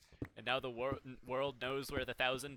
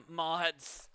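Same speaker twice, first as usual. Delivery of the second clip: calling out; 4 semitones higher, 5 dB louder than usual. Acted. Calling the mods pointedly.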